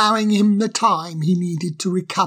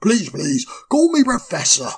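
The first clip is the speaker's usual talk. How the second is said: kindly. Acted. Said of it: "said the owl kindly".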